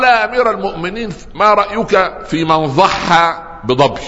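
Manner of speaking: lightly voiced rustic man asking the caliph; Bedouin asking. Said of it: "وقال".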